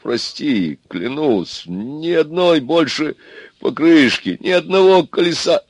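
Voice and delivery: understated tremulous apology, pitch rising steeply; trembling voice. A narrator's reading. Аристарх swears to Вера on his knees, trembling voice. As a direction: plead with a wobble, climbing as you swear. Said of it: "дрогнувшим голосом заговорил Аристарх".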